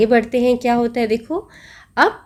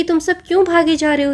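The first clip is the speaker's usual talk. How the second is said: lion questioning; 7 semitones higher, much faster than usual. Acted. Lion's question repeated.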